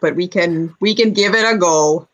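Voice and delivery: Minnesotan furbolg voice; folksy Fargo accent, lightly done. Acted. Furbolg proposes visiting the mechanical man, Fargo accent. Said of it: "I'm going full Fargo over here".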